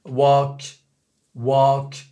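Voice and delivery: "walk" with the vowel right but a French final K. Shown as a demonstration. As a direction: say "walk" ending on a French-style K. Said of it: "le K, il fait français".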